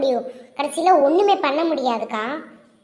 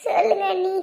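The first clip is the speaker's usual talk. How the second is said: tearful, sobbing reply; 2 semitones higher than usual. Acted. Crying girl answers her sister-in-law, tearful. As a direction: answer through sobs. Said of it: "கொஞ்சம் அழுகாம இருமா".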